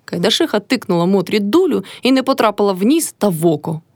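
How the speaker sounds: ordinary delivery, nothing marked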